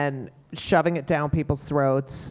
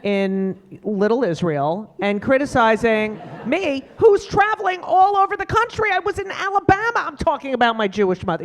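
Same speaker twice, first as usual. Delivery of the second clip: rising high, indignant retort; annoyed rant; 5 semitones higher, 4 dB louder than usual. Retold or imitated. Retorting to the Upper West Side critic, high and annoyed. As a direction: tell off the armchair critic, pitch climbing. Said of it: "I got really annoyed".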